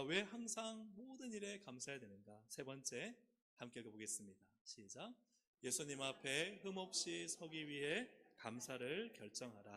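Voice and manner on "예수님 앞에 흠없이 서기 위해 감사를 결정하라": slow, loud, measured recitation; leading unison reading. Real, not acted. Preacher leading congregation in reading the point aloud, slow loud recitation. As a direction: lead the congregation word by word, drawn out.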